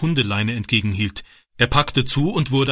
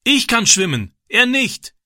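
high, raised answer; calling back; 11 semitones higher than usual. A narrator's reading. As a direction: call back to the man on the bank. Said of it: "rief Francis zurück".

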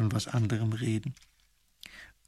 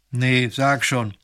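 eager friend; 9 dB louder, much slower than usual. Acted. Emil's friend urging him to tell, slow and loud. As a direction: drag it out, hungry for gossip.

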